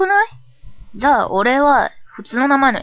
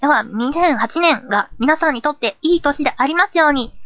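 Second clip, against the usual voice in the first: higher, presenter-like greeting; polite New Year wish; 6 semitones higher than usual. Acted. Host persona wishing listeners a good year, polite. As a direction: offer a formal wish to listeners.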